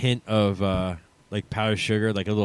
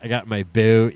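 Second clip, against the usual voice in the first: put-on South Jersey accent; 4 dB louder than usual. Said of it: "the southern New Jersey accent".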